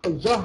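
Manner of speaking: الجهر with a thick, back "ah"; wrongly heavy jeem. Shown as a demonstration. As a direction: darken the ج of الجهر. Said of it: "غلط".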